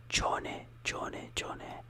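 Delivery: cione said in one sound, CHO-neh; Italian cione. Shown as a demonstration. Teacher modelling the end of arancione. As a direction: blend cione all at once, CHO-neh. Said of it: "Like, all at once".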